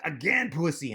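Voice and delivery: high, loud mock German taunt; hammed-up German order; German accent. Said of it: "she's like".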